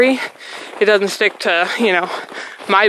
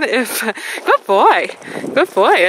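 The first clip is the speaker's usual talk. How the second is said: excited praise; 3 semitones higher, much slower than usual. Real, not acted. Praising dog during fetch.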